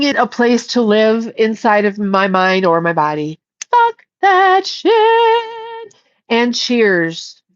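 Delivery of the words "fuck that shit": higher, slow, drawn-out defiance; defiant dismissal. Real, not acted. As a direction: stretch it out like you're done with it. Defiant dismissal of her condition.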